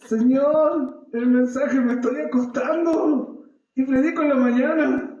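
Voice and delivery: fretting to God as the deadline nears; a preacher hamming up his own last-minute panic; nervous pleading. Retold or imitated. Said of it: "me pongo nervioso".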